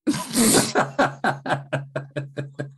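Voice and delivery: laughing. Real, not acted. Laughs at the whispering.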